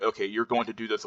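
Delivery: plain firm fall on "do this"; downward inflection. Shown as a demonstration. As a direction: make "you're going to do this" a statement. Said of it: "the downward inflection is there".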